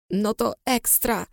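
soft, slow, gruff grumble. Acted. Mia grumbling to her friend on the phone, gruff. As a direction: grumble it back, curt and sour. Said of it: "burknęła nadzwyczaj szorstko".

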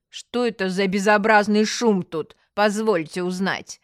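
mildly indignant demand; a touch of stern displeasure; displeased. Acted. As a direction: demand an explanation, leaning on the complaint. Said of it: "недовольным тоном спросила".

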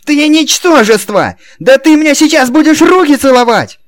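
очень громко, высоко, медленно; завизжать в ярости; визгливый крик. A narrator's reading. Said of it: "визгливо закричал". (Динелли-младший визжит на охранника)

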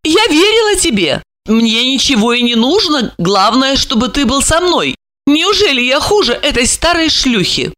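high-pitched tender pleading; affectionate, high-voiced entreaty; soft, coaxing. A narrator's reading. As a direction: plead sweetly with a lover. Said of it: "Голос её стал мягким и ласковым".

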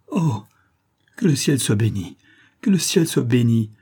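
blessing heaven with joyful relief; relieved cry. Acted. Frightened wife hearing knocks, relieved outcry. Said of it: "s'écria-t-elle".

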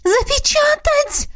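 extremely high, drawn-out squeal; shrieking lady. A narrator's reading. The lady in red screams again, very high. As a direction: screech it, outraged and slow. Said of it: "визжала всё та же тётка".

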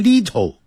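"little" as lit-toe, every syllable hard; very wrong little. Shown as a demonstration. 老师夸张示范更错的读法. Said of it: "更不要念成little".

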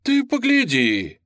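Red Guard exclaiming in delight at the cripple. A narrator's reading. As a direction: marvel out loud at him. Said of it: "восхищённо воскликнул".

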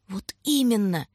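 slow, heavy stress on именно; weighty. A narrator's reading. Tanya answers Shurka with weighty, slow именно. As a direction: lean hard on именно. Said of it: "веско сказала Таня".

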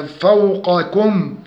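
careful فوقكم, emphatic qaf; heavy qaf. Shown as a demonstration. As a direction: thicken the qa in فوقكم. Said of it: "تفخيم القاف لأنها مفتوحة".

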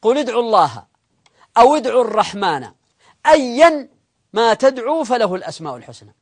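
measured verse recitation; clear, phrase-by-phrase recital; Quran recitation. Acted. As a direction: read the verse out deliberately, pausing between phrases. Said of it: "نقرأ الآية".

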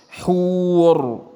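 حور held very long with a heavy ر; drawn-out example word. Shown as a demonstration. Teacher draws out the word to show the heavy ra. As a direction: stretch حور slowly, ر full and heavy. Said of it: "مثلًا".

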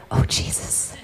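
unvoiced whisper from the back seat. Mother retells son in the back seat, whispered. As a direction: breathe it out like a shocked little prayer. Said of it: "I hear him whisper".

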